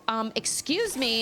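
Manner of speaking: slow snotty excuse me; rude Karen. Retold or imitated. Mom showing the rude way to ask, slow snotty. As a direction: sneer it out, rude and entitled. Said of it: "be a Karen".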